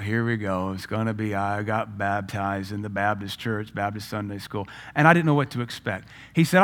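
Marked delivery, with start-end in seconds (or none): 0.0-4.7 resigned low recital of the usual story; weary inner thought. Retold or imitated. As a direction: think it to yourself, unimpressed. Acts out his weary expectation.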